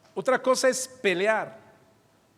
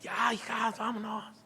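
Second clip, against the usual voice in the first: grito ahogado para que no oigan los vecinos; grito contenido imitado; 6 dB quieter than usual. Retold or imitated. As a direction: imita a un padre apurando a las hijas sin hacer mucho ruido. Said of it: "Que no escuchen los vecinos". (grito sofocado de papá)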